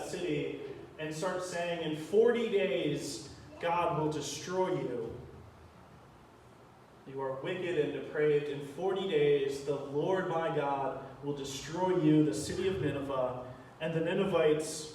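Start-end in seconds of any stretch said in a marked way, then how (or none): 1.9-13.4 doom prophet. Acted. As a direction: drag out each warning like a prophet of doom. Jonah preaching doom in Nineveh.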